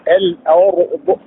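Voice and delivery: الأرض slowly, with a thick R; heavy silent-vowel ra. Shown as a demonstration. Teacher repeats the example for students, slow heavy R in الأرض. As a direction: draw out الأرض, keeping the R heavy. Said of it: "تلوناه مفخما".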